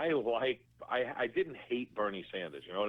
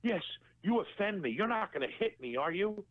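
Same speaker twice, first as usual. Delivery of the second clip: raised pitch, mock indignant voice; offended wedding guest, lightly mocked, higher pitch; mocking whiny guest; 9 semitones higher than usual. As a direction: play the offended prissy guy, a bit higher.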